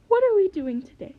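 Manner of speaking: put-on eager child bursting to start; excited. Eager pupil asks teacher.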